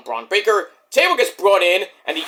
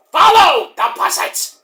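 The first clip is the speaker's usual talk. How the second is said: eerie Bray Wyatt call; 8 semitones higher, 4 dB louder than usual. Retold or imitated. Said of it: "you know".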